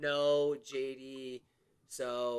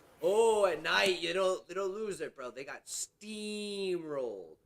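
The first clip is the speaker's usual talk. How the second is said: put-on Creole Southern accent; 4 dB louder than usual. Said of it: "forgot what his actual voice sounds like?".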